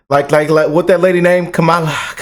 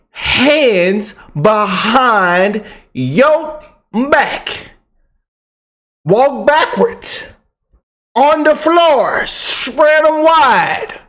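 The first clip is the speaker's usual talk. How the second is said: slow, drawn-out mock cop orders, higher; cop commands; 4 semitones higher, much slower than usual. Vlogger playing a cop arresting officials, slow commanding orders.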